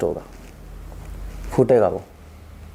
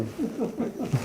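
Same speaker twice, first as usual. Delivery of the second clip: brief amused chuckle; short high laugh mid-lecture; high light laugh; 8 semitones higher, 12 dB quieter than usual. Real, not acted. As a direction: laugh quickly at your own joke. Laughing at his own point.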